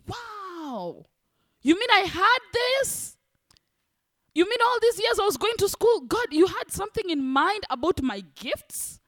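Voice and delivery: retold wonder; amazed. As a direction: marvel at a gift you never knew you had. Her own amazed discovery retold.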